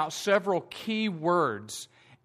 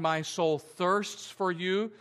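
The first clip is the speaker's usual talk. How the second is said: slow quoted verse; slower than usual. Shown as a demonstration. Quoting verse in sermon.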